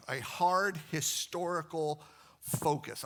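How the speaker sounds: "hard" slow and emphatic; stressed hard. Shown as a demonstration. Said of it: "I love that".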